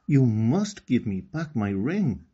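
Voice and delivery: mild mock shout. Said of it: "she shouted".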